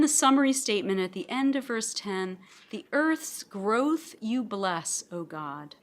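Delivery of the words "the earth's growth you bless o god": slow reading, leaning on "growth"; stress on growth. Shown as a demonstration. Reading the psalm to the class, stressing "growth". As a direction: draw out "growth" and let "O God" fall away. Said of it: "I want to emphasize the word growth".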